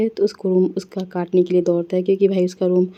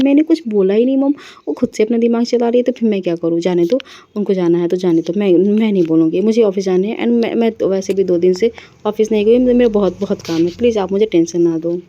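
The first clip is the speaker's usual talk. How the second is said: irritated outburst. Acted. Myra snaps at mother-in-law.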